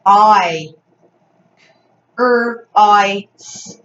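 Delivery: "Er, I, S" as separate sounds with gaps; sounding out. Shown as a demonstration. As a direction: sound out "Cries" piece by piece, loud vowel. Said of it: "Fred Talk".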